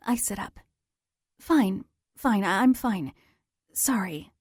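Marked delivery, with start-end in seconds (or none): 1.4-4.3 tearful. Acted. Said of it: "I say, turning away".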